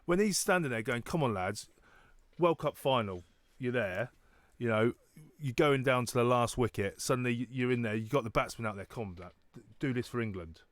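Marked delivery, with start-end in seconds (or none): 1.0-10.6 imitating a South African coach; lightly done South African accent. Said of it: "With a South African accent".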